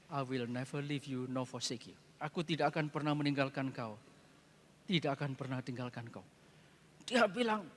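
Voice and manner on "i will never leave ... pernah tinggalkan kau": soft, low, tender promise; soft voice of Jesus promising; hushed promise. Retold or imitated. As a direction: murmur it like a comfort. Quoting Jesus's promise in English.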